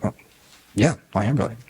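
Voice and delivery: low, self-satisfied acceptance; mock smugness. Flattered doctor agrees with the compliment, mock smugness.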